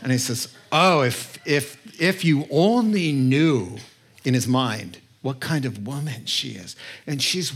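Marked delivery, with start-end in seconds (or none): 0.7-3.8 mock British accent for a pompous religious man; British Pharisee voice. Pharisee disapproving to himself of the woman, British accent. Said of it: "I go to my British voice for Pharisees". 5.2-6.7 lightly British, lower and softer; British Pharisee voice. Acted. Pharisee judging the weeping woman in his mind, British accent. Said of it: "I go to my British voice for Pharisees".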